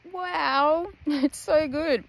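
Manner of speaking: talking with a mouth full of food; chewing through the words. Real, not acted. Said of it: "I had my mouth full".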